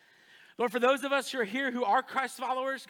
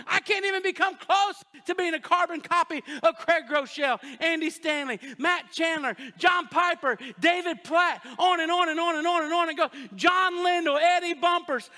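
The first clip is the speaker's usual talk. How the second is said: loud, higher run of shouted names; fired-up preaching; 4 semitones higher, 4 dB louder than usual. Real, not acted. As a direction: build it up like a revival preacher.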